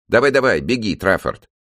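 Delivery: high, loud fake-bright cheer; forced cheerfulness. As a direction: pump up hollow enthusiasm. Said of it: "с наигранной бодростью сказала куколка".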